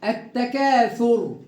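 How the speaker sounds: التكاثر with the lam silent and a doubled t; correct recitation. Shown as a demonstration. Teacher shows students the word, correct recitation. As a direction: recite التكاثر straight into the held t. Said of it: "ونقرأها صحيحة إن شاء الله".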